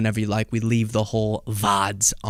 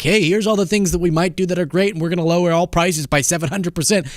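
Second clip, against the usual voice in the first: mock politician pitch; 6 semitones higher than usual. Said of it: "give him an open mic to be like".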